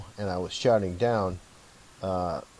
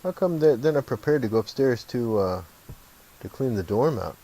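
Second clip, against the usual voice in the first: higher, louder baffled inner voice; mock-incredulous questioning with pitch lifted; puzzled, retold; 6 semitones higher, 3 dB louder than usual. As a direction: re-enact bewilderment, starting high and easing down. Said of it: "I was kinda puzzled, thinking".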